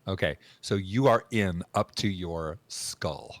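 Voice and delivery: usual speaking voice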